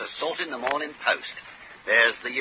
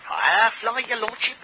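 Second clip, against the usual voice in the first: high-pitched, startled query; taken aback; 8 semitones higher than usual. Acted. Clerk questioning his lordship's choice of horse, taken aback. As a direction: question it in rising surprise.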